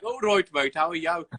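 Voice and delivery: a quick mock Brummie "all right, mate"; matey Brummie hello, lightly hammed up; Brummie accent. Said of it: "You think that I would have had a fucking, like".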